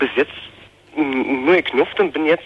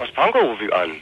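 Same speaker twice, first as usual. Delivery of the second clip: tinny phone voice. Real, not acted. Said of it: "Du klingst ja so komisch".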